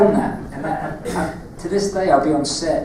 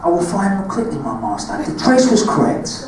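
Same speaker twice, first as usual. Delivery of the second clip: put-on Darth Maul line in Cockney accent; menacing Cockney Darth Maul; 4 semitones higher than usual. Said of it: "your Darth Maul lines in your Cockney accent".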